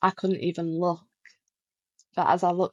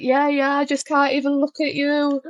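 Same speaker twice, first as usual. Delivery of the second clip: pitched way up, a little louder; overwhelmed high quote; 7 semitones higher, 3 dB louder than usual. Retold or imitated. A starstruck fan answering her idol, high and emotional. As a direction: squeak it out, overwhelmed. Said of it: "I was like".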